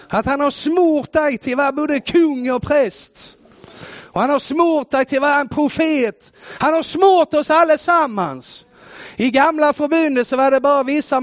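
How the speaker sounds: "smort" struck hard, climbing in pitch; rising sermon fervour. Acted. Preacher telling the congregation they are anointed, climbing fervour. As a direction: build each line like a revival preacher.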